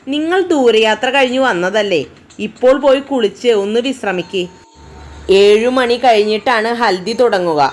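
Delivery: happily. Acted. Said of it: "കല സന്തോഷത്തോടെ പറഞ്ഞു".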